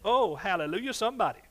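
loud exultant hallelujah; hallelujah shout. Real, not acted. Preacher rousing the congregation, loud and joyful. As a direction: call out praise to the room.

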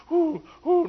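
loud high pained whoops; mock pain whoops after a knock. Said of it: "Now I hit my head".

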